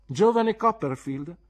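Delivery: high, loud, slow summons; imperious schoolboy's hail; commanding call. Acted. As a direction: call the boy back across the room. Pupil calls boy back.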